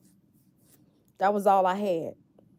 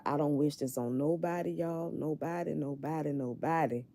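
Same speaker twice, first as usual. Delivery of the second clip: near tears; 6 dB quieter than usual. Real, not acted. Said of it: "I'm trying not to cry".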